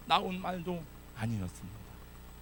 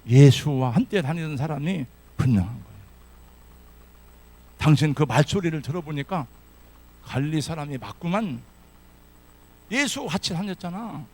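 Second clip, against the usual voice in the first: accusing bystanders; 5 dB louder than usual. Acted.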